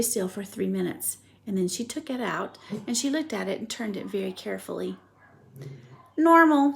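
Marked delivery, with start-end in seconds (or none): 6.2-6.8 loud, high proud announcement; announcing. Acted. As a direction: declare the result. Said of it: "she announced".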